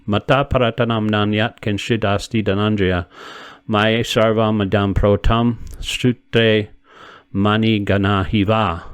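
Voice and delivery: slow, measured chant of the verse; Sanskrit verse recitation. Acted. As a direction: intone the shloka slowly and evenly. Recites Sanskrit verse before glossing.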